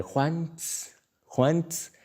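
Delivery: a light mock of mom's game; playful high call with sneezes; imitating mom. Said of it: "ella imitándome".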